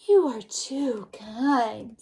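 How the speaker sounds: put-on a polite little girl, drawn out; Little Red Riding Hood.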